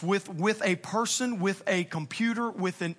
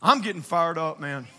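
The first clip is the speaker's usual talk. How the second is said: laughing; 4 semitones lower than usual. Real, not acted. Laughing at his own intensity.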